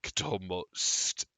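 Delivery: slow hushed whisper; whispered creepy relish; savouring whisper. Acted. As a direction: breathe it out hungrily. Monster savouring a voice.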